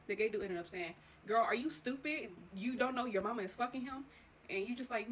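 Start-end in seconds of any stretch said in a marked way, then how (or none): 1.3-4.1 imitating a taunting friend. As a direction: drag out the mockery, loud. Gay dude mocking her, retold.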